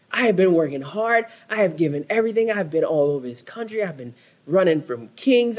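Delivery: a hint of Elijah venting to God; mild despairing Elijah. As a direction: pour it all out, a touch of exhaustion.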